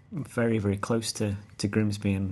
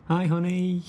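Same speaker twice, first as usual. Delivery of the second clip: mock sweet greeting; 7 semitones higher, 4 dB louder, slower than usual. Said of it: "I never call her honey".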